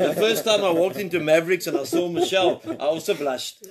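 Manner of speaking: chuckling through the words; laughing. Real, not acted. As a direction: laugh while confessing. Host laughing at own story.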